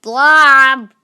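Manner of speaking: yelled one-word complaint; loud scornful cry of blob; indignant shout. Real, not acted. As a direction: blare out blob in loud outrage. Indignant at tiny reward.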